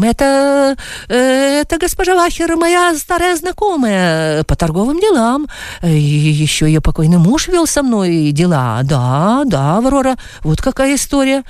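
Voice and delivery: a man caught out, fumbling his words; flustered Adam. Acted.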